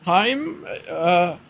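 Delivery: hammed-up high whiny noble; frantic high-pitched pleading client; Superius. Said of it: "Superius looks at him and he goes".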